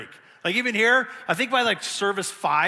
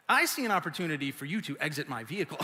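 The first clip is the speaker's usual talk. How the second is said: snarky comeback; 3 semitones lower, 5 dB quieter, faster than usual. Retold or imitated. Snarky reply to his wife.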